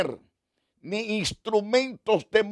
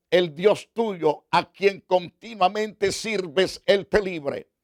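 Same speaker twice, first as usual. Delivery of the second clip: encouraging king. Acted. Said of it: "le alentó diciendo".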